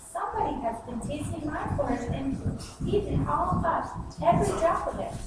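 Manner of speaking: lightly voiced upset little cub; a hint of a tiny bear crying out; wee little voice. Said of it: "cried out loud in a wee little voice".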